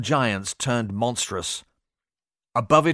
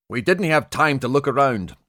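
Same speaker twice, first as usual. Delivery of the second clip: snapped reproachfully; 3 semitones higher than usual. Acted. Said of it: "he snapped reproachfully".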